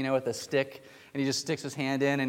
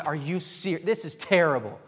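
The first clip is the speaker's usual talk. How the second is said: retold indignation; 5 semitones higher, 4 dB louder than usual. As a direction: imitate upset churchgoers, pitched a bit high. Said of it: "they were just so upset".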